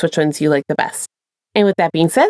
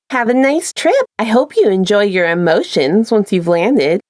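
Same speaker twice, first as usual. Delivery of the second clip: customer service voice. Acted. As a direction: wave him off with fake cheer. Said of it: "customer service voice in full swing".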